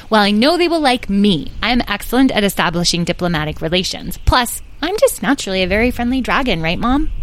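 chirpy show-off dragon; proud young dragon. Acted. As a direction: boast cheerfully. Edwin, cheerful dragon.

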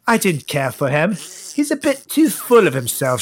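lightly put-on British quote; mock British accent. Host quotes British actress on co-star, mock British accent. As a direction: play a British actress being dismissive. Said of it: "She is British".

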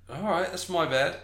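high character voice, conceding; Ennister. Acted. Ennister admitting a mistake, high put-on voice. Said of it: "See, Ennister goes".

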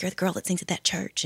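put-on a light, accidental Southern US accent. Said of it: "I said that like a Southern person".

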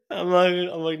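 ordinary talk

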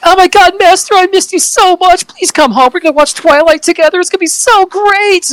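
put-on high, gushing Valley Girl. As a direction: squeal it like a lovesick Valley Girl. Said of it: "full Valley Girl".

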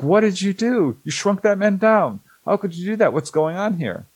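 high-pitched, alarmed retold protest; imitating freaking out. Betty confronting the aliens who shrank a man: mock panicked, high. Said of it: "Betty is freaking out".

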